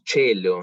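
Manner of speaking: "cello" said with a ch sound, CHEH-lo; "cello" pronounced ch-e-llo, church-style Latin; Italian-style ch. Shown as a demonstration. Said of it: "se pronuncia cello".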